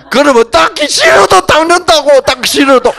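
loud, high emphatic call; emphatic shout. Real, not acted. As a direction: drive the point home loudly. Emphatic lecture point. (크게 힘주어 외치듯)

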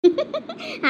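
short, high-pitched giggle; teasing laugh. Acted. Wife mocking husband over their love marriage, high giggle. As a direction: break into a teasing little giggle.

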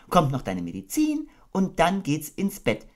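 high, gentle mother kangaroo voice; motherly Kanga. Acted. Kanga tucking her baby into bed, motherly. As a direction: coo it like a doting mother.

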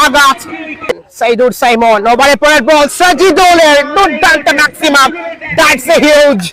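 lively live play-by-play; cricket commentary. Real, not acted. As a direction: call the match ball by ball. (Cricket ধারাভাষ্য)

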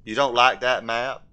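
put-on simple southern man's accent; Forrest Gump. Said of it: "I gotta talk like Forrest Gump".

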